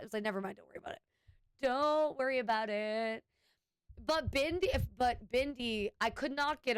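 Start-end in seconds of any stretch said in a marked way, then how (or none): 0.2-1.0 dismissive aside. Retold or imitated. Retold brushing off a confused coworker. 1.6-3.2 drawn-out brush-off. Retold or imitated.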